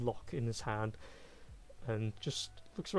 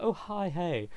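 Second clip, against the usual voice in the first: sudden greeting; 6 semitones higher, 3 dB louder, slower than usual. Acted. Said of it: "suddenly it's just like".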